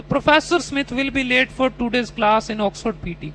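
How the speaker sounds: slow mock student with a made-up ending; imitating the student's answer. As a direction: finish the sentence confidently with anything. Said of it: "तो".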